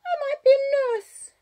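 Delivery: put-on high, loud little-girl voice; confiding child. A narrator's reading. Child confiding to the budgie, high child voice. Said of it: "she confides to the budgie".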